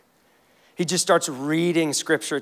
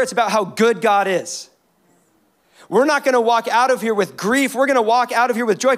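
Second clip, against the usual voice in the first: rallying call; 3 semitones higher than usual. Retold or imitated. Nehemiah urging weeping people to joy, a rousing call. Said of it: "and he goes".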